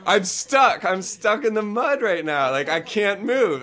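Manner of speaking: high-pitched, insistent protest; acted mild panic. Kid stuck in mud explains to friend, mildly panicked.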